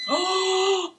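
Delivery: high, slow thrilled exclamation; excited gasp. Real, not acted. Cook shows viewers the finished dish, thrilled. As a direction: gasp and show it off, delighted. Excited reveal of cooked food.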